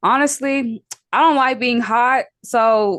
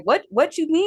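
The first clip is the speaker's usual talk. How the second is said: confused reply; 8 semitones higher than usual. Retold or imitated. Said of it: "I will reply back, like".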